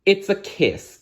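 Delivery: high, eager princess answer; excited answer. Acted. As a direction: beam out the answer.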